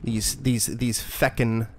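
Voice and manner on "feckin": slow "feckin'" with an E sound; "feckin'", first vowel as in "deck"; fucking with an E. Shown as a demonstration. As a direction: draw out "feckin'" with a short E. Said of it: "You gotta say fucking with, uh, with an E".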